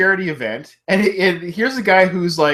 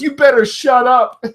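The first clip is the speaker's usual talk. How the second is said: mock threat; 9 semitones higher, 3 dB louder than usual. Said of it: "He goes".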